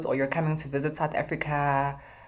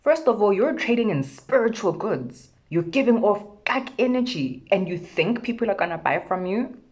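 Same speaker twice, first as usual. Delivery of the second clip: sassy telling-off; 5 semitones higher, 3 dB louder than usual. Retold or imitated. Telling off the street vendor.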